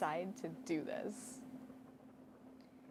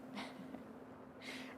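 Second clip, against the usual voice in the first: brief, quiet breath of laughter; amused chuckle; 9 dB quieter than usual. Real, not acted. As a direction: chuckle lightly at yourself. Amused at feeling confident.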